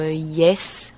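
yes with a drawn-out e; Australian yes. Shown as a demonstration. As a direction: draw the e in yes longer, Aussie style. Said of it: "a longer E sound".

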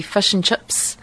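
fish and chips with fish almost fush; stronger Kiwi vowel. Shown as a demonstration. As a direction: push the i right into a u sound, fush. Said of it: "or even more strongly would be".

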